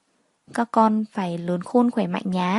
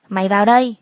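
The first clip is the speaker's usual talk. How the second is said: angry summons; 6 dB louder, faster than usual. Acted. Husband summons her angrily.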